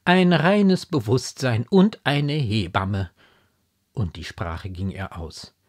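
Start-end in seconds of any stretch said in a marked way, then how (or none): 0.1-3.1 slow, raised disbelief, stress on und; scandalized mother, measured and higher; indignant. A narrator's reading. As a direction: spell out the affront slowly. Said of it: "mit Entwürdigung".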